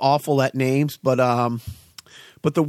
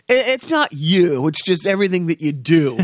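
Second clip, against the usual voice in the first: quoted line. Retold or imitated. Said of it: "to quote the Naked Kente".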